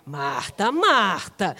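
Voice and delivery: low drawn-out "Marta", rising, then "Marta" falling; slow reproving double "Marta"; chiding intonation. Retold or imitated. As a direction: chide her with "Marta, Marta", first low and rising, second swooping down. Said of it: "A gente já lembra até a entonação".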